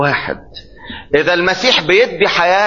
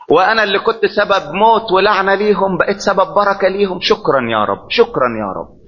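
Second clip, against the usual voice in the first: put-on young man raised from death thanking Jesus, hushed and grateful; grateful prayer. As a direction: breathe thanks like a raised boy. Voicing raised youth thanking God.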